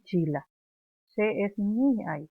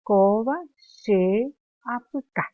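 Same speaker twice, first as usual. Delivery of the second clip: slow loud drill; 5 dB louder, slower than usual. Shown as a demonstration. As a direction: drill the line slowly out loud. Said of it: "Repetimos nuevamente".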